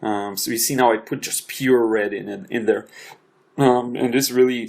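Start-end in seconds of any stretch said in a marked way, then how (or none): 3.6-4.7 hiccuping mid-sentence; a sudden hiccup breaks the words. Real, not acted. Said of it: "sorry, I had a weird hiccup".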